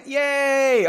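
high, loud, drawn-out cheer; mock cheer. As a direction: give a playful hooray.

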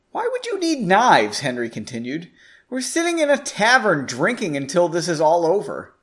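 steady storyteller reading a chapter aloud; story narration. A narrator's reading. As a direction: tell the heist tale to the listeners. Narration with dialogue.

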